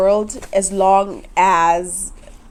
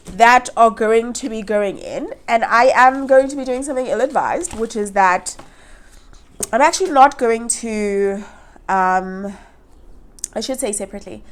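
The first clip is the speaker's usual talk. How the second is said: nasal voice. Real, not acted. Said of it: "I apologize for the nasal voice".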